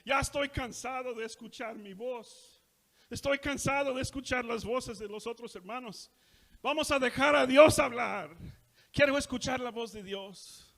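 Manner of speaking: high, rising to loud on Vamos a dejar a Dios hablar; impassioned preacher. Retold or imitated. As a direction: plead with fire for God's voice. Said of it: "Y luego dice".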